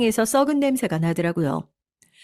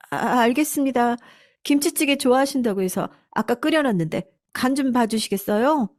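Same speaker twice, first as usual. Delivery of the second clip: lightly voiced meek servant, higher pitch; deferential housekeeper; 5 semitones higher than usual. Housekeeper offering stew to her employer, lightly acted high deference. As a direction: answer obediently in a higher, polite voice.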